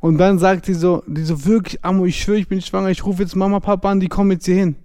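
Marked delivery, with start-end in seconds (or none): 1.5-4.8 higher, mildly whiny mock pleading; imitated tearful insistence. Girlfriend swears she is pregnant, imitated tearful pleading. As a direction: insist in a lightly imitated cry. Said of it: "dass sie geweint hat".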